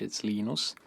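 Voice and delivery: "Linus" said the Finnish way, LEE-nus with short even syllables; Finnish pronunciation. Shown as a demonstration. Linus telling the interviewer his name in Finnish, LEE-nus. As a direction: say "Linus" as a Finn would: LEE-nus, stress on the first. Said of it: "When I speak Finnish".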